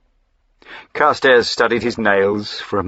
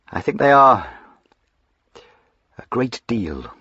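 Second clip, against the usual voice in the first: wistful; 4 semitones higher than usual. A narrator's reading. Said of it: "said my lord wistfully".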